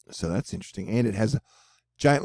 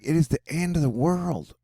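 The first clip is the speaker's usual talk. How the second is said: higher, put-on doomsayer voice; mock alarmist; 6 semitones higher than usual. Vlogger mimicking people who panic, mock alarmist. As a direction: imitate people overreacting, pitched up. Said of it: "People always be like".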